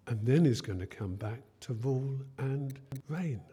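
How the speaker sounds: a kind teacher's gentle question; kindly. Retold or imitated. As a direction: patiently lead them to the truth. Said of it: "Jesus said very kindly".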